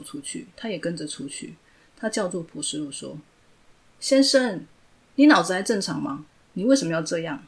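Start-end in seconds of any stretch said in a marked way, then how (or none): 4.0-7.4 calling out. Acted. Calls out after him.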